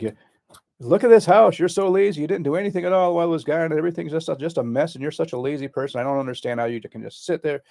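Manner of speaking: high, loud accusing rant at a lazy spouse; mock angry yelling. Shown as a demonstration. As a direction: yell it like an angry spouse coming home. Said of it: "they start yelling about you".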